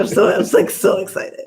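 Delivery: breathy excited whisper; whispered excitement. Real, not acted. Telling viewers about the new puppy in an excited whisper. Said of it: "I'm really excited".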